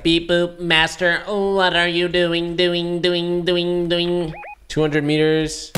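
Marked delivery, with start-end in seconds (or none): 0.0-4.3 stuttering robot butler voice; glitchy looping robot servant. Pretend. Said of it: "The robot's like".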